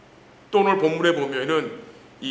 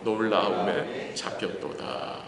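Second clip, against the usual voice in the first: slow, low scripture recitation; reading aloud together; 5 semitones lower, slower than usual. Real, not acted. Preacher leading congregation in Jeremiah's lament, reading aloud. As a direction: read the verse out solemnly and slowly for all to follow. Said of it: "한번 같이 읽을까요".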